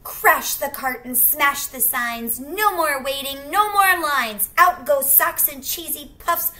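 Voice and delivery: loud, high, racing chaos; building wild excitement; wild tantrum. Acted. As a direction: let the mess explode.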